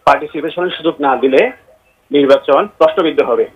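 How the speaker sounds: phone caller with echo; echo on the line. Real, not acted. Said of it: "আপনার কথায় ইকো হচ্ছে". (ইকো সহ ফোনের কণ্ঠ)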